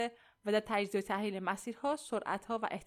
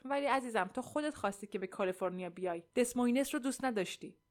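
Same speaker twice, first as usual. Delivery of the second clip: mildly helpless objection; understated, hopeless pleading; despairing protest; 2 semitones higher than usual. Acted. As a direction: protest weakly to a spouse. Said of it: "ناامیدانه اعتراض کرد و گفت".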